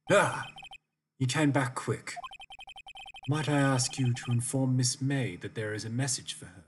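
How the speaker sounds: a hint of a formal bellboy, lightly voiced. Gamer voicing the bellboy to Phoenix, lightly formal. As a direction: play the hotel bellboy, polite and stiff. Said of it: "that's how I see this guy".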